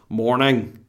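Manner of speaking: North Down "morning", slow and from the throat; North Down accent. Shown as a demonstration. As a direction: push out a North Down "morning" through throat and nose. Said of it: "from the back of your throat".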